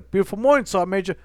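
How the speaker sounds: high, loud sunny greeting; cheerful soldier greeting his sergeant; cheery greeting. Retold or imitated.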